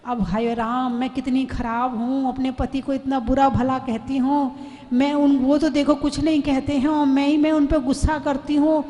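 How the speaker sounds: a repentant wife sighing to herself; remorseful wife. Retold or imitated. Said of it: "प्रायश्चित और पश्चाताप हुआ।".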